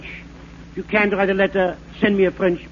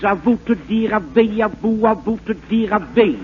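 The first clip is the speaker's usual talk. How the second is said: mock French gibberish. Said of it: "talking French like this".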